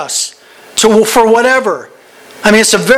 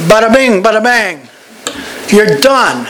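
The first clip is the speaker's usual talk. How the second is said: playful flourish. Real, not acted. Preacher's playful triumphant flourish.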